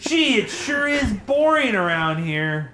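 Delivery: slow, exaggerated sarcastic drawl; sarcastic boredom. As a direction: lay on the fake boredom.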